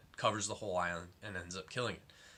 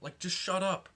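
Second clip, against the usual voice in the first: higher, louder and slow, fed up; annoyed shout; 9 semitones higher, 4 dB louder than usual. Retold or imitated. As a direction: drag out the shut up like you've had enough. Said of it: "And I just was like".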